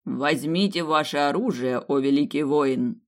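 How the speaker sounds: slow, loud solemn decree; solemn old priest. Acted. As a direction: proclaim it like a grand prophecy. Priest Plas speaking.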